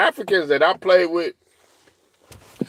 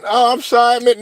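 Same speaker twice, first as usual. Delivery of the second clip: high, louder hammed-up apology; mock apology; 9 semitones higher, 4 dB louder than usual. Imagined polite apology after foul, high mock voice. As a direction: overplay the sorry, high.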